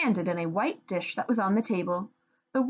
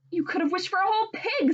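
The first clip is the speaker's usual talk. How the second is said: scolding; 11 semitones higher, faster than usual. Acted. Wife scolding husband.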